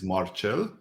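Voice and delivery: "Marcel" said mar-CHEL, with a ch sound and the stress on the end; "Marcel" in Romanian, as mar-CHEL, stress on the last syllable; Romanian pronunciation. Shown as a demonstration. Guest shows the host his Romanian name, said mar-CHEL. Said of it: "the Romanian pronunciation".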